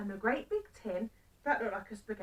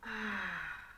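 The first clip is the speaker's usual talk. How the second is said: contented sigh; 2 semitones lower, 7 dB quieter than usual. Acted. Old man sighs at breakfast thought.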